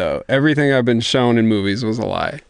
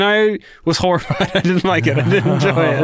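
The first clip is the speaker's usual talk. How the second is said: laughing; 5 semitones higher than usual. Real, not acted. Laughing while recounting party.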